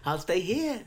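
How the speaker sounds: hammed-up taunting. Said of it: "you're laying it on a bit thick".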